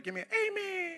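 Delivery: calling for an amen. Real, not acted. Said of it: "You didn't say it like I said it".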